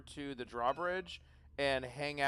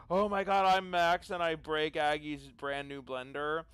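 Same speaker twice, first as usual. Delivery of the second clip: mocking imitation. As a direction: make fun of someone as you quote them. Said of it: "making fun of him".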